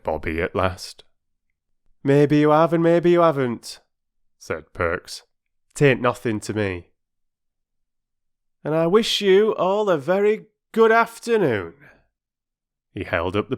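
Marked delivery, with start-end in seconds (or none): 2.0-11.7 high, loud, dismissive porter; huffy porter. Acted. Perks dismissing the children, huffy. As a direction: shut the conversation down with mock courtesy.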